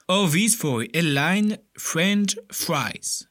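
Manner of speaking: put-on quoting in English with a French accent. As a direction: read the last words in English with a French accent. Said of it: "Pardonnez-moi pour mon accent". (citation en anglais avec l'accent français)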